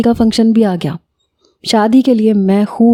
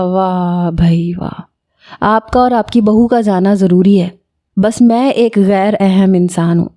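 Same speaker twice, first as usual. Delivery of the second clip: mock hurt sarcasm. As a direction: drag it out like a wounded drama. Son mock-sulks about being left out. (طنزیہ، روٹھا ہوا لہجہ)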